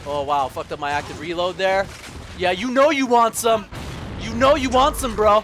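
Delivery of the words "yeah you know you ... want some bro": loud cocky taunt. Real, not acted. Gamer taunting opponents, loud and cocky. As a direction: goad the enemy.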